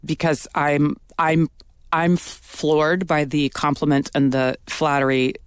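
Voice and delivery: flustered stammer, repeating I'm; stuttering. Real, not acted. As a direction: trip over the words, embarrassed. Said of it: "I'm stuttering because it's hard to say this".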